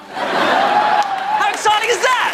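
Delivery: high, slow mock excitement; sarcastic. Real, not acted. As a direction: oversell it sarcastically. Sarcastic about vodka near fruit.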